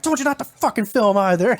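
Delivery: laying down the law. Retold or imitated. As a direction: play a manager telling someone off in mock anger. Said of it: "laying down the fucking hammer".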